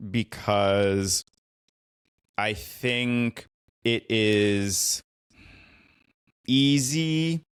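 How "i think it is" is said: ordinary talk, nothing marked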